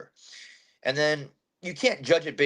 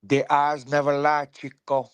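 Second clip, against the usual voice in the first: louder, a touch of a movie gangster line; Scarface quote; 3 semitones higher, 5 dB louder than usual. Retold or imitated. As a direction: channel the Scarface gangster, lightly. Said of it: "You ever see the movie Scarface?".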